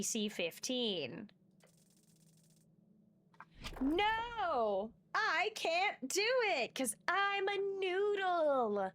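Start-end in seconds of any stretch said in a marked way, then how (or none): 3.8-8.9 panicked whine. Acted. Player panics on cliff climb.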